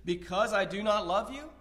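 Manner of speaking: mildly sarcastic rhetorical question; a light touch of mock disbelief; understated facetious jab. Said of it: "being facetious".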